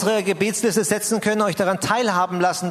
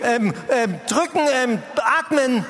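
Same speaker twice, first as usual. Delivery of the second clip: mild mock yell; 4 semitones higher than usual. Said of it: "ich schrei diese schwangere Frau an".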